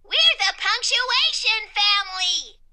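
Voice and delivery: high, loud, proclaiming character voice; excited announcement. A narrator's reading. Exclamation Point introducing family to letters, excited announcement. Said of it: "Exclamation Point explained".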